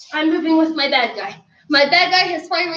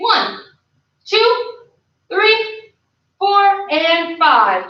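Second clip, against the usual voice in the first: higher-pitched count, spaced beat by beat; instructor's rep count, pitched up on middle numbers; drill count; 4 semitones higher, much slower than usual. Real, not acted. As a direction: call out the hold like a coach. Counting out a held kick.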